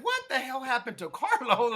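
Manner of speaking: high, laughing put-on disbelief; laughing mock outrage. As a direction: play the shocked viewer through laughter. Imagining the audience's shock.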